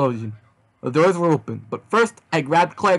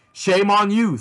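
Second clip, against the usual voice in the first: higher, slightly raised call; mild shout; 6 semitones higher, 3 dB louder, slower than usual. A narrator's reading. Steve names the date spot, mildly shouting. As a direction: call it out with a lift in pitch. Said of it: "Steve shouted".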